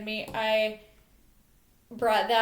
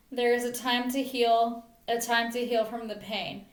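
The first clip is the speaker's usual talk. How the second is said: measured poem recital in short phrases; earnest spoken verse; poem reading. Real, not acted. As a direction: read your own poem aloud, line by line. Reads second poem aloud.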